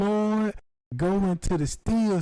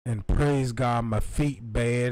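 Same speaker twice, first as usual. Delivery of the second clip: put-on old lady voice; 5 semitones lower, slower than usual.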